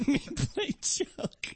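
slow, breathy "Me play joke"; Chinese guy impression. Shown as a demonstration. Comedian continuing the demo impression, slow and unvoiced. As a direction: keep the light Chinese guy impression going. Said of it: "I'm gonna do an impression of a Chinese guy".

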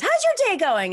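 imitating a store worker asking how your day is going; guy in line. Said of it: "the guy goes".

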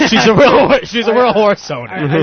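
laughing through the words. Real, not acted. Laughing while mocking the horse owner. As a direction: giggle out she's a real horse owner.

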